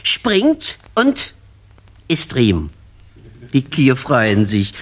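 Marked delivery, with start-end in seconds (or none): none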